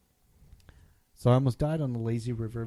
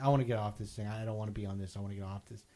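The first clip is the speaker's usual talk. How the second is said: fading mumble; 4 semitones lower, 10 dB quieter, faster than usual. Retold or imitated. Retold pleading, voice fading.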